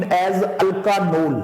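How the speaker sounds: alkanol बहुत धीरे खींचकर; slow naming. Shown as a demonstration. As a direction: spell out alkanol slowly for the class. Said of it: "alcohols are named". (alkanol धीरे-धीरे, शब्द को खींचकर)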